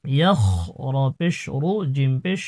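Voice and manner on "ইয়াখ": ইয়াখ with a thick, scraped kh; heavy kha. Shown as a demonstration. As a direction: end ইয়াখ on a heavy throat kh. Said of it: "খর উচ্চারণটি মোটা করতে হবে".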